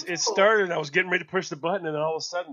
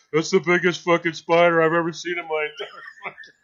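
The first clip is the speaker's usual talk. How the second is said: louder, laughing imitation of amazed onlookers; mocking quote; 5 dB louder than usual. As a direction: blurt it out loud, breaking into laughter. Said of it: "you guys are like".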